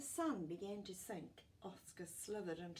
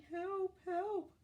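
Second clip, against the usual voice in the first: cry for help; 13 semitones higher, 8 dB louder than usual. Acted. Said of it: "Oscar's going".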